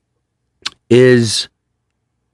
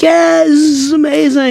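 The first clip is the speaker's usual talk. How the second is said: much higher, forced cheer; put-on excitement. Husband hiding doubts from his wife, forced high cheer. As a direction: fake big enthusiasm to protect her.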